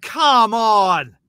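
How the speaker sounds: loud, high exasperated shout; loud outrage at being robbed; indignant protest. Retold or imitated. Audience member protesting loudly that the message was stolen. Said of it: "I was like".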